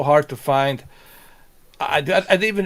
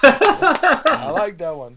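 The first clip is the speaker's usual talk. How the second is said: slow drawn-out; 6 semitones higher, 4 dB louder, much slower than usual. Real, not acted. Repeats line, then draws it out.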